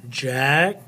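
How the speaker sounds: "Jacket" in two parts, "jack", long pause, "et"; split into syllables. Shown as a demonstration. Teacher showing the final syllable of "Jacket", said in two separated parts. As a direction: break "Jacket" apart with a clear gap before the last syllable. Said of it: "This is the unaccented final syllable".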